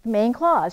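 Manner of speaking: "clause" said firmly with falling tune; stress on CLAUSE. Shown as a demonstration. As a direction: hit "clause" in "Main clause". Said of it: "you can hear it in the name".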